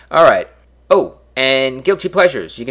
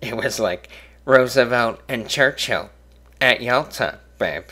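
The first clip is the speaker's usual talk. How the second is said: bad Dennis Miller. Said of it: "the worst impression I've ever done".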